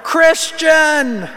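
high, loud scream of a name across the room; woman screaming a name. Retold or imitated. Woman calling out for her son, screaming "Christian!". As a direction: shriek the name to call a boy. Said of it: "we heard some woman scream".

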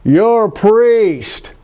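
high, loud, drawn-out Southern twang; screaming Bible Belt twang. Retold or imitated. Woman screaming across a Texaco store at a stranger, screaming twang. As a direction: holler it slowly in a heavy Bible Belt twang. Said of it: "heavy Bible Belt twang ... screaming".

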